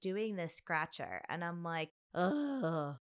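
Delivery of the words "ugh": weary "ugh"; exasperated groan. Retold or imitated. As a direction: groan at a drawn-out wait. Groans at the drawn-out scratcher.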